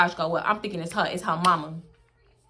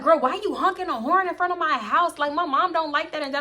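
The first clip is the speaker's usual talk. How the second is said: imitated complaining friend; 7 semitones higher than usual. Friend complains about honking.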